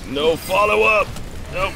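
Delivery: high, loud, stretched-out complaint; exasperated cry. Real, not acted. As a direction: call out the letdown, drawing it out. Teammates fail to follow ultimate.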